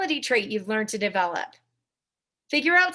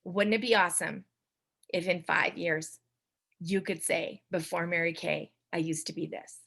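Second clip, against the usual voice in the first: soft pitch demo; 6 semitones lower, 6 dB quieter than usual. Shown as a demonstration. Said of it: "you look at the damn circle".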